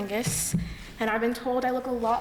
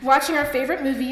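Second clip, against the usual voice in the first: fast, giggling through the words; laughing; 4 semitones higher, 4 dB louder, faster than usual. Real, not acted. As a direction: rush it out with a nervous laugh. Nervous laughter during tribute speech.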